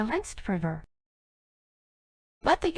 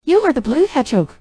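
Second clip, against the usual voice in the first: loud, ringing announcement; grand proclamation; 5 semitones higher, 7 dB louder than usual. Acted. Genie hailing the hero as chosen, loud and grand. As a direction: declare it like a prophecy.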